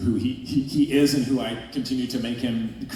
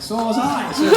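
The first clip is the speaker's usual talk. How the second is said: pitched-up, louder playful comeback; high mock reply; 14 semitones higher, 7 dB louder than usual. Actor retelling his reply to a co-star, squeaky and pleased. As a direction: toss it back high and cheeky. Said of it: "and I was like".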